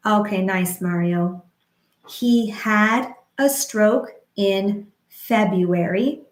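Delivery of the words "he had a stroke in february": slow, syllable by syllable; slow rhythmic demo. Shown as a demonstration. Speech therapist modeling a sentence slowly, rhythmic. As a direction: model it slowly for stroke survivors. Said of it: "We could say".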